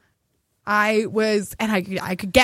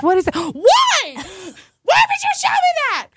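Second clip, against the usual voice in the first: high disgusted squint voice; disgusted laughter; 12 semitones higher, slower than usual. Retold or imitated. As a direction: recoil in mock disgust, slow. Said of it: "They're like".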